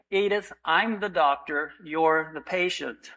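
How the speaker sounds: gentle, slowing down at the end; said gently. Retold or imitated. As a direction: ease her down kindly. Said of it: "Doctor Phillips said gently".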